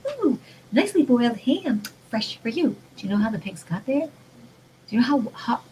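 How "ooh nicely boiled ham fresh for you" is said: a lighter sing-song sales pitch; mock cheerful advert for ham; mock package voice. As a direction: lightly voice the happy ham label. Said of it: "they're gonna say".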